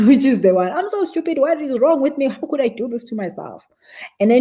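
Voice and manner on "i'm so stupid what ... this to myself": self-blaming inner voice. Acted. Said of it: "you're gonna write the crappy one".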